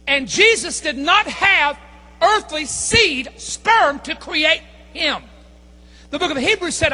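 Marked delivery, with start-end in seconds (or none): 0.1-5.2 preaching. Acted. Preaching point about earthly seed.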